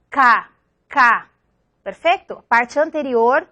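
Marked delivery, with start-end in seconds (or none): 0.1-1.3 crisp isolated "K" demo from the back of the mouth; velar k sound. Shown as a demonstration. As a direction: say "K" as an isolated velar stop, back of the tongue on the palate. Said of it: "La lengua toca a la parte anterior al paladar". (sonido "K" aislado, consonante velar)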